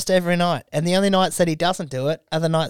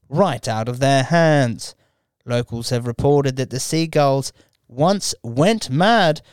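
lightly mock news anchor read; newsreader voice. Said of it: "in a little newsreader voice".

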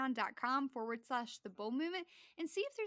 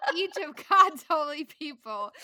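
reading through laughter; louder, giggling read; laughing; 4 semitones higher, 14 dB louder than usual. Real, not acted. Reading while still laughing.

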